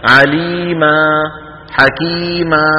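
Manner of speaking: slow recitation, both long vowels in عليما and حكيما held evenly; measured chant-like demo of عليما، حكيما; equal-length elongations. Shown as a demonstration. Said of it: "بنفس الطول". (ترتيل بمد متساوي الطول)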